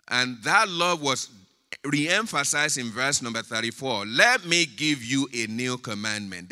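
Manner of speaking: loud, emphatic citing of scripture; emphatic preaching. Acted. Preacher citing the new commandment to the church, emphatic preaching. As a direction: proclaim the verse firmly to the congregation.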